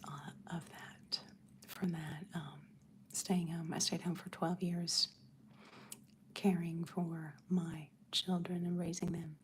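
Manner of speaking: soft unvoiced whisper, close to the mic; ASMR whisper. Real, not acted. Whispering to her livestream viewers about motherhood. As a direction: hush it like an ASMR video.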